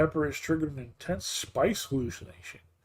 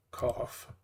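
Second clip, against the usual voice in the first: fake cough; 4 semitones lower, 7 dB quieter than usual. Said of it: "spice stuck in my throat".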